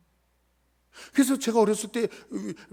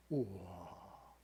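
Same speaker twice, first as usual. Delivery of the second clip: awed wow; 12 semitones lower, 16 dB quieter, much slower than usual. Real, not acted. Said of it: "awed reaction".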